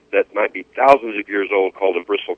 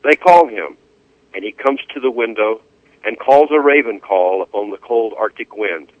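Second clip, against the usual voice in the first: poem reading. Acted. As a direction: let each image settle, unhurried.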